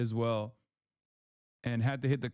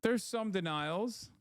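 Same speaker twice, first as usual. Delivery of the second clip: sing-song repeat; 6 semitones higher, slower than usual. Shown as a demonstration. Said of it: "repeats line sing-song".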